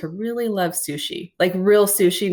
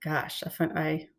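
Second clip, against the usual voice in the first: whispered musing. Real, not acted. Stalling over a question.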